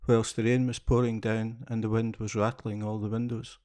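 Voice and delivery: gentle storybook reading voice; story narration. A narrator's reading. Narrator reading a children's tale aloud, gentle storybook voice. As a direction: read the fairy tale to listening children.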